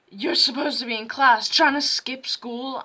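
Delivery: retold scolding, a touch of shouting; shouting teacher. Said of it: "she was just shouting at me".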